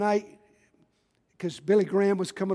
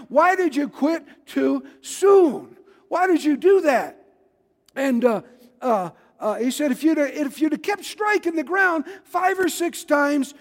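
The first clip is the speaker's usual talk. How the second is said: raised, higher scolding voice of the prophet; angry prophet; 6 semitones higher than usual. Retold or imitated. Prophet scolding the king for striking only three times, angry. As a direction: berate the king for quitting too soon. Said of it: "the prophet got mad. He got so angry".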